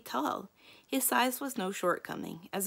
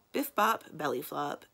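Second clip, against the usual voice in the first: playful quip; 2 semitones lower than usual. Acted. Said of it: "Sally quipped".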